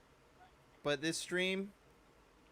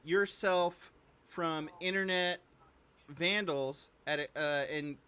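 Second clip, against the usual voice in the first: ad read. Acted. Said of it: "A perfect ad read".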